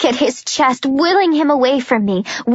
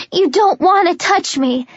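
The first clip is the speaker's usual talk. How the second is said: breaking voice; 5 semitones higher than usual. Acted. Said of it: "My voice breaks".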